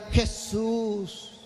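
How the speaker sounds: a desperate cry of Jesús, ayúdame shouted in a strange voice; mock shout for help. Worshipper shouting to Jesus from the bathroom, mock desperate yell. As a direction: yell it out like someone locked in the bathroom. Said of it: "empieza a gritarle".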